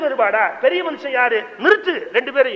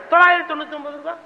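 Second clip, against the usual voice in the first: rapid haggling; 4 semitones higher, much faster than usual. Retold or imitated. Haggling back and forth.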